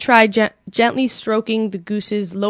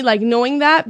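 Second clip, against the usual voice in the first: ordinary talk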